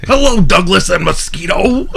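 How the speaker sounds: cartoon old-guy hello; older neighbor voice. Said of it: "He always called him Mosquito".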